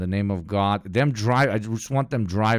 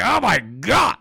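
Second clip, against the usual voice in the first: high, loud giddy squeal; mock overjoyed dictator; imitating giddy Kim; 12 semitones higher, 7 dB louder than usual. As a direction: squeal like a thrilled kid with a gift. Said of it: "He's like".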